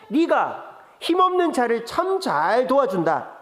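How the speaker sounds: slow biting irony; sarcastic. Retold or imitated. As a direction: say the praise but mean the opposite. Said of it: "이것도 비꼬는 말이죠".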